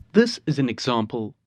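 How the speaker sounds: highs cut off, dull and muffled; muffled bass only. Retold or imitated. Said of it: "That's obviously a bit drastic".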